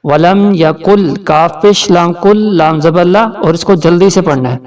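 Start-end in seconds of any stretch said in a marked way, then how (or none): 0.0-1.1 ولم یکل with kaf joined to lam; joined sounds. Shown as a demonstration. Teacher showing how to join kaf and lam. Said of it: "کاف کو لام کے ساتھ ملائیں گے".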